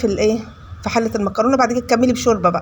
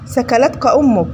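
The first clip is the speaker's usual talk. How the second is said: slow solemn quote; slower than usual. Retold or imitated. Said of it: "سيدنا النبي ... قال له إيه؟".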